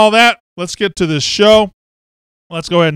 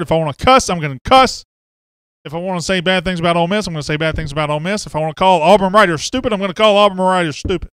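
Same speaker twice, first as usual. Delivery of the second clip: worked up. Real, not acted. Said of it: "I got all worked up".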